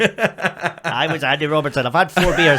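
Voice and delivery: laughing through the words, slow at first. Real, not acted. Joking he played the footballer, laughing. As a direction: giggle out the confession. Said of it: "We were role playing".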